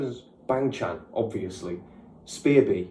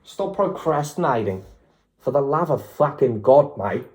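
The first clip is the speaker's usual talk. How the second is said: put-on a light, half-hearted Australian accent; mock Australian accent. Fan scolding herself for procrastinating, in a mock Australian accent. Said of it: "I don't even know if that's Australian".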